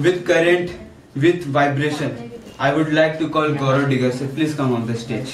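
deliberate announcer's introduction; stage announcer. Acted. Co-host calls Gaurav onto the stage, announcer style. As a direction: build up the guest, phrase by phrase.

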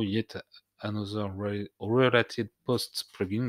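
plugin name in a French speaker's awkward English accent; clumsy English accent. Real, not acted. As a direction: read the English name in a self-admittedly bad English accent. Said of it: "excusez-moi pour mon accent anglais exécrable". (nom du plugin dit avec un accent anglais maladroit)

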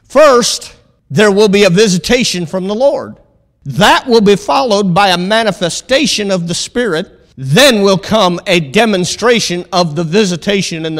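measured pulpit reading; prophecy reading. Real, not acted. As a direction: read it out as a proclamation. Reads prophecy aloud to congregation.

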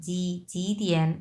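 "জি দিয়ান" begun with Bengali j; voiced j sound. Shown as a demonstration. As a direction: voice the first sound in "জি". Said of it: "বর্গীয় জ". ("জি দিয়ান" বর্গীয় জ দিয়ে)

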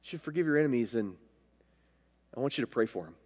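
low, very soft, halting voice of God; the Lord speaking. Retold or imitated. God asks him to pray for his enemies, low and hushed. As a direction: say it hushed, with gaps between phrases. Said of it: "He said".

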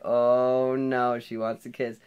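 put-on boy panicking that the girl wants to kiss him; panicked. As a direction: blurt it out in mock panic. Panics when she lifts head.

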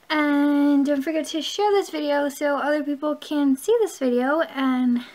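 breathless, rushing through the outro; running out of air mid-sentence; out of breath. Real, not acted. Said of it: "I'm running out of breath".

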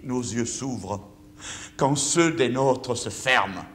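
slow solemn reading. Shown as a demonstration. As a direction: read the father's line slowly and gently. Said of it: "mon père avait écrit cette phrase".

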